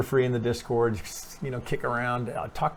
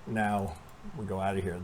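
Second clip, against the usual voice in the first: ordinary talk, nothing marked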